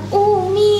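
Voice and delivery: put-on high sing-song child call; kids calling Umi. Pupils greeting their teacher, high child call.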